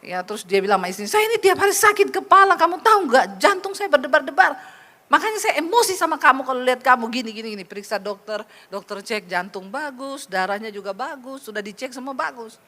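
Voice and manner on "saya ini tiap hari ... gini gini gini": acted irritable complaint, quick and insistent; mock a husband venting his temper; angry husband. Husband blames his wife for his headaches, angry. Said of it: "rumah sakit tiap hari kan dia marah".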